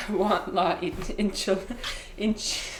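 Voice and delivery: laughing attempt at a Mexican accent; mock Mexican accent. Imitating show-offs ordering at a Mexican restaurant, Mexican accent. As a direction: put on a Mexican accent and crack up mid-word. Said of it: "read the different menu options in a Mexican accent".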